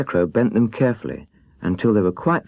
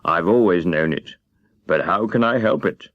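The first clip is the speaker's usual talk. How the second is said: ashamed. Acted. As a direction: hang your head as you admit it. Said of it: "hanging his head in shame".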